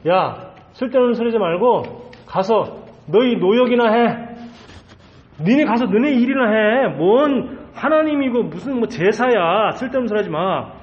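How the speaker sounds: dismissive ruler ordering slaves off; scornful Pharaoh. Acted. Pharaoh sends the slaves back to their labour, scornful. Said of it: "출애굽기 오 장 사 절에 뭐라죠".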